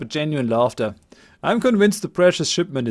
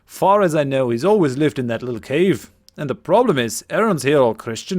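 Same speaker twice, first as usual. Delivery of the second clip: put-on lightly overdone Scottish accent; a young villager's Scottish lilt; 3 dB louder than usual. Game master voicing Cillian to the party, Scottish accent. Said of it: "my attempted Scottish accent".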